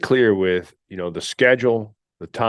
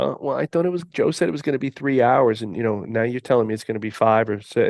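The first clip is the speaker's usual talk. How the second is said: complaining candidate; 3 semitones higher than usual. Retold or imitated. Mocking a complaining hire.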